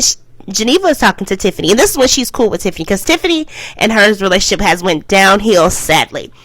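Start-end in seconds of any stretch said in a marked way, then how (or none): none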